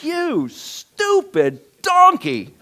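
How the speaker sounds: high, slow hammed-up yell at the donkey; mock furious yell. Preacher mimics Balaam cursing his donkey, hammed-up high yell. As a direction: bellow it like a man losing his temper. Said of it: "It's like".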